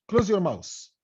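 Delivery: "mouse" said for mouth in Close your mouse; th turned to s. Shown as a demonstration. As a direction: mispronounce mouth with a final s. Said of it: "الثاء بتنطق اس". (نطق mouth في الجملة "ماوس" بالسين)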